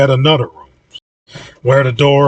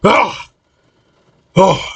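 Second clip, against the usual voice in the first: short high cry, then a gasp; acted pained gasp; 7 semitones higher than usual. Freed captive with tape ripped off his mouth, pained gasp.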